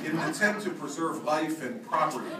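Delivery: pompous governor reading a warning to the shore; mock gubernatorial. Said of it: "I tried to act very gubernatorial".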